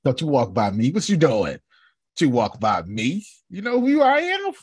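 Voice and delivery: brash, cocky call-out; swaggering pick-up attitude, ends laughing; bold attitude. Retold or imitated. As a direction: stop her in her tracks with swagger. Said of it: "That's my attitude".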